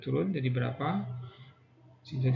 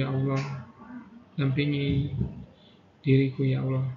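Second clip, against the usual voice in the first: guided prayer. Acted. Leads prayer during tapping.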